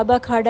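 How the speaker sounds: ب، کھ، ڈ said as short sounds; phonic sounds demo. Shown as a demonstration. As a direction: sound out ب، کھ، ڈ one by one. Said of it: "باہر تو ا".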